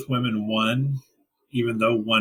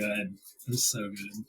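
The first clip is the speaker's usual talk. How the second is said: soft, slowed wistful echo; 4 semitones lower, 10 dB quieter, slower than usual. Real, not acted. Repeats the line.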